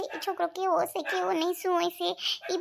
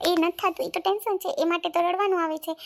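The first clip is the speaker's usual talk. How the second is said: tearful protest; 2 semitones higher, 4 dB louder than usual. Acted. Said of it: "રડવાથી કાંઈ નિવારણ નહીં આવે".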